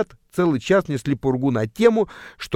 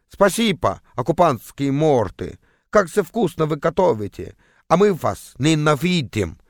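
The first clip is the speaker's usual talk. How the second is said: put-on Estonian accent. Pranksters thank women for food in mock Estonian accent. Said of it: "с таким же эстонским акцентом".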